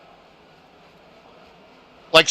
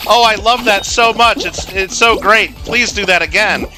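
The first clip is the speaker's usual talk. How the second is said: mock-delighted boyfriend, pitched up; 5 semitones higher than usual. Streamer retelling a cat video's boyfriend, mock-delighted. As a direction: gush it, imitating a thrilled boyfriend. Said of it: "starts laughing and says".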